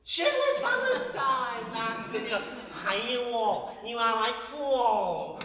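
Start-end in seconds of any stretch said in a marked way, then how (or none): 2.7-5.4 slow, lightly voiced film line; imitating Pauline Collins. Fan quoting her favourite film to the wall, slow mock line. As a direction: savour the quote slowly, like a fan. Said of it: "the way she says that in that film".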